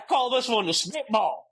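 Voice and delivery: hammed-up Southern redneck; redneck Southern accent. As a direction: play a redneck pitcher, high-voiced Southern twang. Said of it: "redneck names for each of his pitches".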